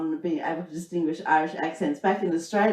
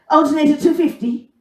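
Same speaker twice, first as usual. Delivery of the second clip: higher, louder gruff Mayo mechanic; thick Mayo accent; 9 semitones higher, 9 dB louder than usual. Retold or imitated. Mayo mechanic quoting a price in thick accent. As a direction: bark it like a curt country mechanic. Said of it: "it was just like".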